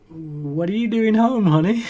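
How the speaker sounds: lightly voiced wife, pitch climbing; a mildly surprised wife's question, drawn up high; puzzled wife. Wife to husband just home from running, lightly puzzled.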